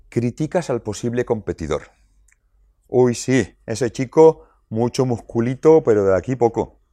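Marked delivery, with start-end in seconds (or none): 2.9-6.8 scornful sing-song put-down of a rival's muscles; catty mockery. Jealous teen mocking her boyfriend's rival, catty scorn. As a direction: sneer at him like a jealous girlfriend.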